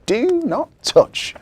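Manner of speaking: high, slow, emphatic; firm little girl. Acted. Victoria reads her warning sign, slow and emphatic. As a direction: spell out the warning.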